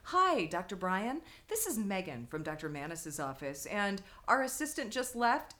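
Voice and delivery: slow, casual phone-call imitation; measured, straight-faced office call; casual deadpan. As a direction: imitate an unruffled receptionist on the phone. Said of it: "very casually just picked up".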